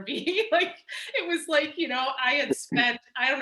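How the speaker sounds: laughing through the words, pitch jumping up; real laughter breaking into the line. Real, not acted. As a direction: chuckle it out, amused at your own excess. Recounting the huge dossier, laughing.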